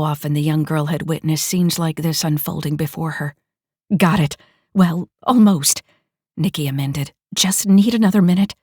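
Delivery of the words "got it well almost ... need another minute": excited. Acted. Hacker reporting success.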